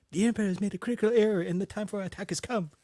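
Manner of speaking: quick quoted movie line in character; put-on voice of a film's rebel leader; Mon Mothma. Mocking a hated Star Wars character's speech, in character. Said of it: "I hated Mon Mothma".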